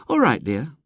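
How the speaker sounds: sweetly. A narrator's reading. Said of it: "said his mother".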